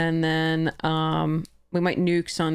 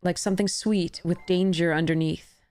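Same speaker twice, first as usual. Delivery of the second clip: poem reading. Acted. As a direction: read it like a love poem to someone close. Reads her love poem aloud.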